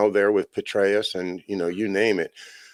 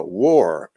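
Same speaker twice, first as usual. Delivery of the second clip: war set apart and said louder; stress on war; 5 dB louder than usual. Real, not acted. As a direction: lean hard on war after a pause. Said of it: "emphasize the word war".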